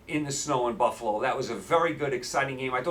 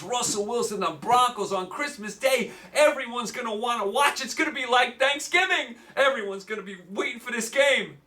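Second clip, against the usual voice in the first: mock excitement; 6 semitones higher than usual. Sarcastic hype builds.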